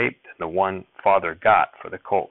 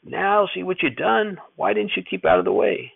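hollering reproach; 12 semitones higher than usual. A narrator's reading. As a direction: drag out the blame at the boy. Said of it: "Grandfather hollered".

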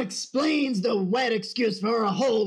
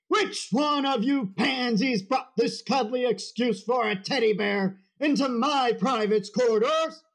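drill sergeant. Acted. Drill sergeant berating recruits.

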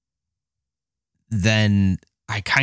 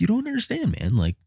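high, pleading whine; mock whine; 11 semitones higher than usual. Husband pleading with his wife, high and whiny. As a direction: plead your case. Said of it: "I'm like".

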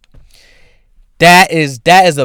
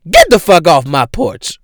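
loud, high imitated yell; a singer; 5 semitones higher, 6 dB louder than usual. Homeowner yelling at a little girl on her porch, mock angry shout. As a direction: bellow it as a mock porch eviction. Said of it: "you hear her go".

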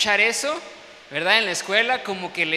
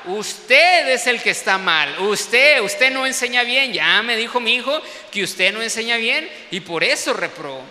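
louder, scolding the teacher; indignant proud mother; 5 dB louder than usual. Retold or imitated. Proud mother scolding her son's teacher, loud and indignant. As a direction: turn the blame back on him. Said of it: "como toda mamá orgullosa".

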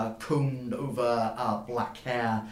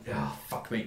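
low, softer muttered curse; resigned groan; 4 semitones lower, 5 dB quieter than usual. Acted. Burden pokes his head out and turns away, low resigned groan. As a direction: mutter it in defeat. Dwarf sees who is coming.

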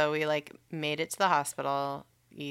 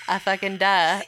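laughing duh; 3 semitones higher, 5 dB louder than usual. Retold or imitated. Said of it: "And I'm like".

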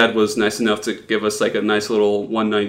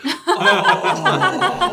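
surprised oh. Retold or imitated. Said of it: "I was like".

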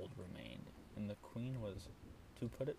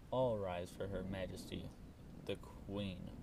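bellowed. Acted. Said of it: "bellowed an important voice".

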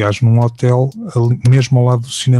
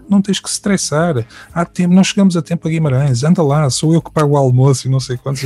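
higher, light mock Alan voice; coaxing, pitched up; voicing Alan; 4 semitones higher than usual. Alan coaxing him to lunch, lightly voiced higher.

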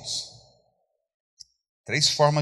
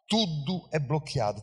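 "Tudo é bloqueado" said again, softer and falling; quiet echo; 6 dB quieter than usual. Shown as a demonstration. Preacher letting the congregation feel it, quiet echo. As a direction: let "Tudo é bloqueado" sink in, softly. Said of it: "repeats the phrase softer".

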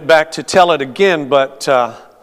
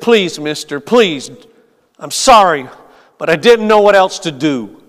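pleading. Acted. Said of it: "he pleaded".

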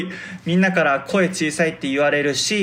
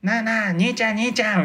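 a hint of an old-school yankee, higher, hassling someone; pitched-up street punk calling out, only lightly put on; lightly voiced 80s delinquent; 5 semitones higher than usual. Playing his yankee stage role, a lightly voiced 80s delinquent. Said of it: "昔の八十年代の不良みたいな".

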